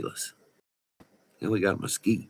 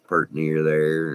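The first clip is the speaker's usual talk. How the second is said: West Texas slang; slower than usual. Shown as a demonstration. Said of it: "I've had to clean up my language".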